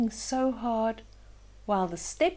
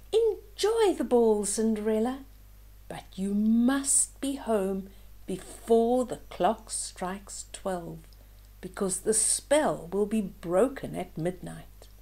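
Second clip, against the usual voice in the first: warning fairy godmother. Acted. Godmother warning Cinderella about midnight, bright then hushed. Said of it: "was the warning".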